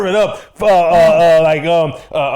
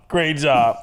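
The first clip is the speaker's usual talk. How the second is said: usual speaking voice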